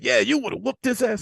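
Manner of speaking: lightly voiced tipsy girlfriend; imitating the drunk girl. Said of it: "she's like".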